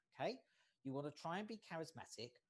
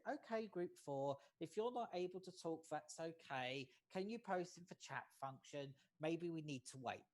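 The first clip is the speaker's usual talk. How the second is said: calm reassuring. Shown as a demonstration. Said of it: "I was very calm and said".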